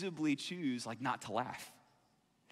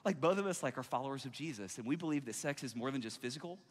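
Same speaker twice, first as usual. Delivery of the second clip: mildly softened, casual admission; gentle explanation. Acted. Believer explaining waiting to a coworker, gentle. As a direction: explain it kindly and without fuss. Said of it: "you might just gently say something like".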